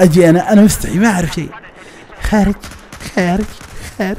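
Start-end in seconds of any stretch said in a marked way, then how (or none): 2.2-4.2 short, half-hearted hawker call; timid low call. Retold or imitated. Shy new driver calling for Kharj passengers, timid and light. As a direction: call out shyly, barely projecting. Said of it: "أصوت وصوت خفيف".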